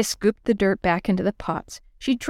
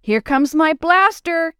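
high, slow excited shout; 9 semitones higher, 4 dB louder, slower than usual. Acted. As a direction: belt it out across the yard. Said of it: "she shouted".

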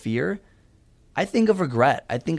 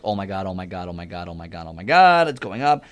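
building panic; 5 semitones lower than usual. Retold or imitated. Climbing the coaster, murmur swelling into a panicked cry. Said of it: "You're like".

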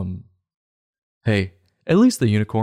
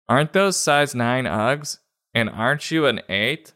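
suspicious friend; 6 semitones higher than usual. Acted. Girl confronts friend over borrowed boots.

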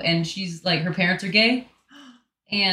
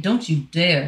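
firm mom scolding the dog; stern mom voice; 4 semitones lower than usual. Real, not acted. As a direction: warn the dog like a strict mother. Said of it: "I had to be a mom for a second".

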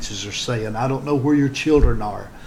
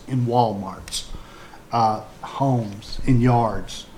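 gentle pastoral appeal; 2 semitones lower than usual. Acted. Pastor confiding in broadcast viewers, gently sincere.

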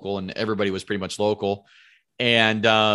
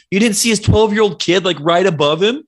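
high, loud disbelieving question; incredulous; 8 semitones higher, 7 dB louder than usual. Retold or imitated. Telling buddy he missed the kid, loud incredulous question. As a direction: hit him with it, louder and higher.

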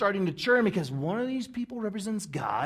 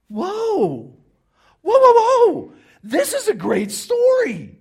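much higher, much louder delighted whoa; amazed whoa; 11 semitones higher, 9 dB louder, slower than usual. Acted. Notorious sinners thrilled by the story, amazed whoas. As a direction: gasp in thrilled wonder. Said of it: "notorious sinners are like".

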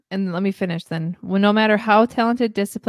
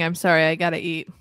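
chewing while talking; mouth full; 3 semitones lower than usual. Real, not acted. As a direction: talk through a mouthful. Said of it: "If you guys hear me chewing".

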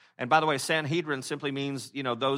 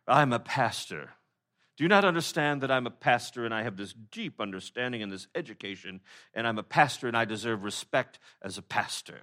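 pompous pastor; 2 semitones lower than usual. Retold or imitated. Pastor mocking a colleague who wants respect, pompous. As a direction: puff yourself up as the entitled pastor.

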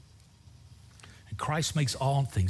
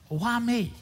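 high-pitched "poor me" complaint; mock whining protest; 10 semitones higher than usual. Preacher retelling his protest to the senior pastor, whining. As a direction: play up the reluctant whine.

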